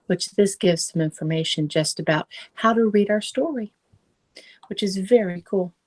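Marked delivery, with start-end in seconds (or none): 4.7-5.7 whisper. Real, not acted. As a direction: whisper it to the little listeners. Comment to children on book.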